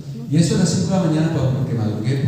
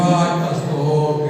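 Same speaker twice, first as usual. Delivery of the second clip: slow sung-out ay, pastor like a pleading driver; a hint of a humble taxi driver lamenting; drawn-out plea; much slower than usual. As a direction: stretch it like a sorry, begging man.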